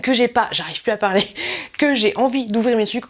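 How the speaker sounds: bubbly, laughing, tripping over words; too much caffeine, can't stop talking; overexcited. Real, not acted. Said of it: "Je suis surexcitée".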